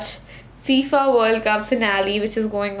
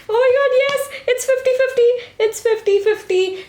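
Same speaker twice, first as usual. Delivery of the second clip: excited cheer; 13 semitones higher than usual. Real, not acted. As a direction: cheer at the tied result. Poll unexpectedly ties, she cheers.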